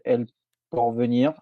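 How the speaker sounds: attempted Spanish pronunciation; Spanish accent. Real, not acted. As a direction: say the name with a light Spanish accent. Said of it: "j'ai un accent espagnol qui est, qui est incroyable".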